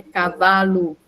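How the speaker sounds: "cavalo" slowly, ending in a clear "lu"; final U sound. Shown as a demonstration. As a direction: say "cavalo" slowly so the last vowel is U. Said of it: "a pronúncia lu no final". ("cavalo" devagar, terminando em "lu")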